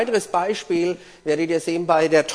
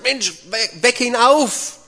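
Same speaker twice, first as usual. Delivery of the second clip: higher-pitched urging, acted; urgent prodding; 7 semitones higher, slower than usual. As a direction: urge a friend to act, pitch climbing. John urging Peter to wake Jesus.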